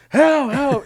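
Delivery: re-enacted high, loud cries; high-pitched storytelling yell; retold scream for help. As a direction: keep yelling for help over the other person. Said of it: "So I started screaming".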